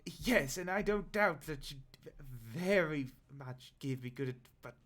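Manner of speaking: a stammering goblin, only lightly put on; nervous goblin. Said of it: "And the goblin's like".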